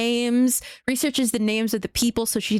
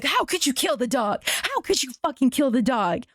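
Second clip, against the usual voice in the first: mock outraged crowd; 4 semitones higher than usual. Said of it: "the audience goes wild".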